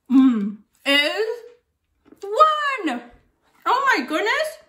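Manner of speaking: leaps high on one; gasp-high oh my goodness; mock amazement. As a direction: fake wonder at the answer. Reveals answer amazed.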